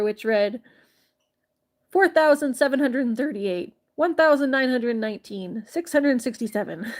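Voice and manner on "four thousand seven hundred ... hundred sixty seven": louder, laughing list of numbers; amused reading. Acted. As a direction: read the numbers with a grin.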